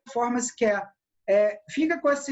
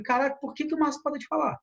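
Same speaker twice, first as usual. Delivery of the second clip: puzzled spectator; 5 semitones higher, faster than usual. Retold or imitated. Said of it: "como espectador".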